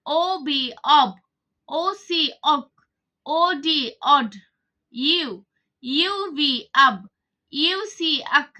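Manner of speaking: slow, spelled-out syllable drill; teacher modelling phonics for pupils; spelling drill. Shown as a demonstration. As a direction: spell each letter, then blend the syllable. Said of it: "teacher spells and blends syllables".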